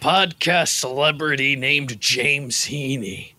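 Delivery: put-on slow, low American-accented announcement; Bear Grylls, American accent. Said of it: "you're trying the American accent today?".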